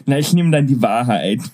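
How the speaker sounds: wet, spitty lisp on the s sounds; slushy lisp. Pretend. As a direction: answer with a slushy mouthful of spit. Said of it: "dann hast du jetzt Wasser im Zahn".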